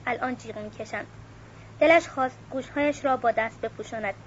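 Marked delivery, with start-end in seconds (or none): 0.1-1.1 much softer, said to himself; a soft aside to himself. A narrator's reading. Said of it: "کوزیمو با خود گفت". (آرام و زیر لب با خودش)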